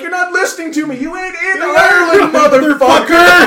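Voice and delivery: loud, high mock tirade; yelling at him. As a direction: tell him off hard, half-laughing. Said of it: "I'm like".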